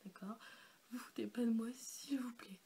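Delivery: whispered playful plea; hushed teasing please; mock pleading whisper. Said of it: "Non, je rigole".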